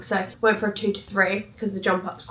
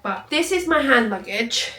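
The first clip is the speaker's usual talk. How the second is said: whisper; 3 semitones higher than usual. Real, not acted. Showing bag to camera.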